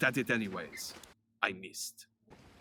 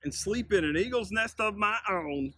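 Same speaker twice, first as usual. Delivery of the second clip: high, eager younger bear voice; a cheerful little-brother bear calling out, pitched high; Buzz's voice; 8 semitones higher than usual. Acted. Buzz greets his older brother Alejandro, high and eager.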